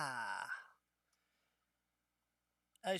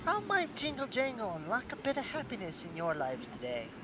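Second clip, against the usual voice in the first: goblin voice; 3 semitones higher than usual. Acted. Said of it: "She manages a faint smile and says".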